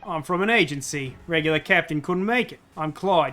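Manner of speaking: loose Cockney game-character voice; rough amateur Cockney, close to Australian; attempted Cockney. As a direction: have a go at a Cockney accent.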